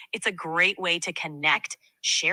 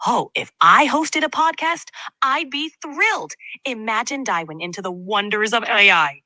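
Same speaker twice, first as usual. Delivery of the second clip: thrilled, higher podcast host; excited; 4 semitones higher than usual. Acted. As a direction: gush with excitement. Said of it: "use a lot of crazy emotions".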